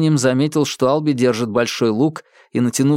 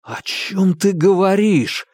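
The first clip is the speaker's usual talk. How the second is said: high, slow bewildered question; a confused boy facing a madman; stunned; 8 semitones higher, slower than usual. Acted. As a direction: ask in shock. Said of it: "оторопел Томас".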